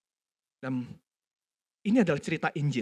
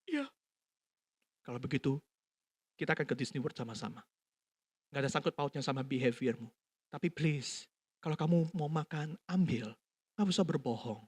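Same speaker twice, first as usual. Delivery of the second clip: calm father; 3 dB quieter than usual. Retold or imitated. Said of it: "Si papa tarik nafas, kemudian ngomong".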